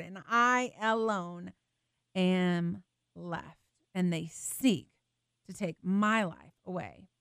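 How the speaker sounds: a hint of a despairing prophet; despairing plea. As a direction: let Elijah's voice fall away, alone and hunted. Elijah's despairing plea, voiced.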